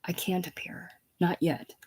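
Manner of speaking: whispered private thought; very soft, barely voiced musing; to herself. Princess to herself about appearing, hushed. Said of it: "Princess to herself".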